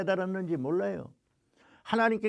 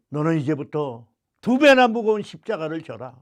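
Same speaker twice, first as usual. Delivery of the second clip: scolding God; 2 semitones lower, 6 dB louder than usual. Retold or imitated. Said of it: "야단을 치시면서".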